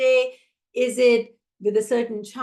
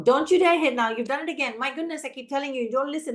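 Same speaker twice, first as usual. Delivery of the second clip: put-on teacher scolding a child who hit; strict firm scolding; 3 semitones higher, faster than usual. Shown as a demonstration. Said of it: "my tone of voice is strict and firm".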